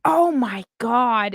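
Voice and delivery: slow, breathy-free drawn out Oh my God; lightly voiced Jennifer Coolidge; Jennifer Coolidge impression. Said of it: "I do my Jennifer Coolidge impression".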